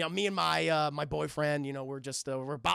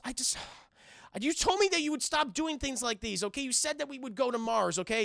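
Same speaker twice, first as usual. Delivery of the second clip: upset protest; 6 semitones higher than usual. Acted. Acted quarrel, woman upset.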